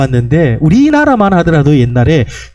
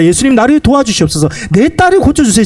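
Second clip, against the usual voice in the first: mild pleading, rising higher; imitated crying out; 4 semitones higher than usual. Mother begging Jesus for her daughter, mildly pleading. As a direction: voice her appeal with a touch of urgency. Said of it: "이렇게 부르짖는 겁니다".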